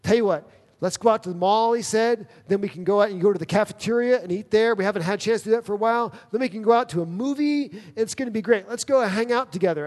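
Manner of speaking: chirpy eager friend. Retold or imitated. Friend eagerly proposing a mall trip, excited. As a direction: rush through the plans like nothing happened. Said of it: "all of a sudden he changed".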